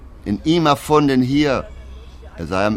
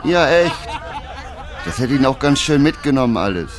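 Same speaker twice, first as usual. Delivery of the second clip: laughing; 3 semitones higher than usual. Real, not acted. Narrator laughing at the claims.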